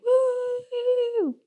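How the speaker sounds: high whooping woo; excited woo. Pretend. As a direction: ride the drop of a roller coaster. Roller coaster tipping over.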